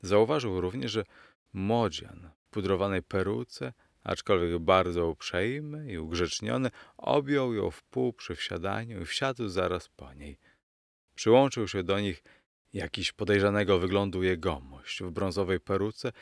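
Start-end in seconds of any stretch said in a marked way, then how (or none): none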